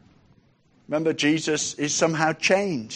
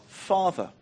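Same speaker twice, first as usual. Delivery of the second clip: hushed, much softer Father; soft spoken; 7 dB quieter than usual. Acted. Preacher answering softly to congregation. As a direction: say it gently, hushed.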